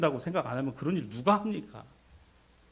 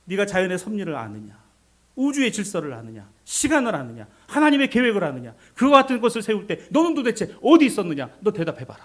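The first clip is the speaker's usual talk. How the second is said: volley of challenges, building louder and higher; God driving relentlessly; 7 semitones higher, 8 dB louder than usual. Acted. God interrogating Job about creation, relentless and mounting. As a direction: press each question harder, mounting to a loud demand. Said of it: "하나님이 그냥 몰아치시는 것이".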